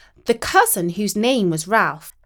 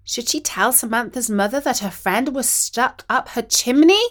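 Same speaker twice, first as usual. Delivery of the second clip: ordinary delivery, nothing marked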